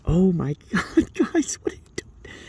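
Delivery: laughing disbelief. Retold or imitated. Disbelief at coworkers' mistake.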